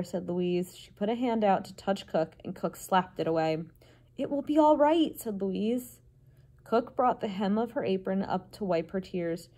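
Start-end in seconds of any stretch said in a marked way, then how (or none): 4.2-5.2 higher-pitched comforting voice; reassuring. A narrator's reading. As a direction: soothe a crying friend, voice lifted. Louise comforts the crying cook.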